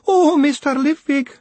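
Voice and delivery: high, slow, loud wailing; long distraught wail. Acted. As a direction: drag the wail out, near sobbing. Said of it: "she wailed".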